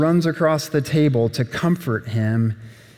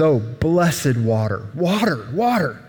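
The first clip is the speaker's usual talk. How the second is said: longing for water. Acted. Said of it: "And he says".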